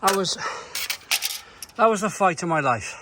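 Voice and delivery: buzzing after the big win; excited relief. Real, not acted. After the tree falls.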